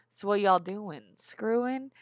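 put-on flamboyant old gay man, slow drawled question; Leslie Jordan. Writer imitates Louis's model, flamboyant old man. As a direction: camp it up, lifting high on the last word. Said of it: "like a flamboyant old gay man".

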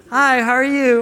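high-pitched caller's greeting; imitating wife. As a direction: greet him as a wife on the phone. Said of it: "my wife likes to call me".

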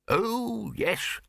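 high, cheerful acknowledgement. A narrator's reading. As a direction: agree brightly and helpfully. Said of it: "said the bursar cheerfully".

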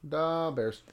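Da Bears in a light Chicago accent. Shown as a demonstration. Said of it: "the Chicago accent".

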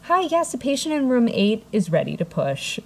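high, businesslike phone greeting; nurse on the phone. Retold or imitated. Nurse phones in a patient ready to push, polite phone voice. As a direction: start high, brisk nurse calling it in. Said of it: "She picks up the phone and she goes".

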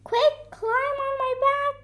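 high, loud urgent bear; urgent call. A narrator's reading. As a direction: rush them onto your back. Bear urges Coco in emergency.

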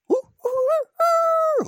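loud, high rooster crow; rooster impression. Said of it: "bad impersonation of a rooster".

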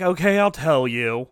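hammed-up terrified confession; caving old man. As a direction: panic and blurt the location. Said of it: "And then Sauniere's like".

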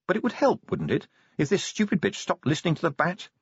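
a hint of a needling inner beast; inner wolf arguing. The inner wolf argues back.

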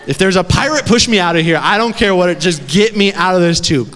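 high-pitched frantic pleading; retold screaming. Trapped caver begging anyone to pull him out, frantic screaming. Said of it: "I am screaming".

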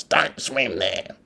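slow hint of a bossy old local; stern beach local. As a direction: draw it out like a busybody local. Imitating a local warning on beach.

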